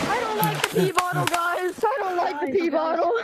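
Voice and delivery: panicked shout. Pretend. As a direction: shout it like you're stuck. Pretends trapped, shouting.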